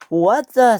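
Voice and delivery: loud high startled cry; surprised. Acted. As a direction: blurt it out in shock. Timothy hit by car.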